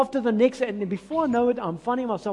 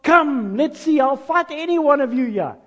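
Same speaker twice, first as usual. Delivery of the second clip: mocking giant's challenge, rising louder; Goliath taunting; 4 semitones higher, 3 dB louder than usual. Preacher voicing Goliath taunting David, loud mock challenge. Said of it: "and says".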